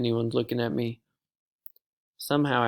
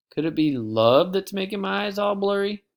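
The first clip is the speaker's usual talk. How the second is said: mock swoon; 8 semitones higher, 4 dB louder than usual. A mock-romantic wonder.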